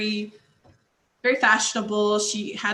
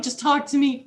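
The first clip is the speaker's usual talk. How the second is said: giggly, raised plea; laughing plea; 5 semitones higher, 3 dB louder than usual. Retold or imitated. Fan begging New Yorkers to talk, laughing. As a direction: beg through a laugh. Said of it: "I'm like".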